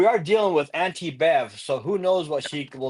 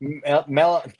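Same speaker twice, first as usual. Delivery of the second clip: numb tongue. Real, not acted. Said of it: "my tongue is numb. I can't talk".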